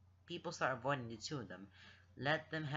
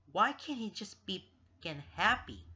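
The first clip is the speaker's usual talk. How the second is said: higher, louder burst of frustration; angry inner outburst; 6 semitones higher, 5 dB louder than usual. A narrator's reading. Lance rages inwardly at himself, exasperated. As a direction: blurt it out in exasperation.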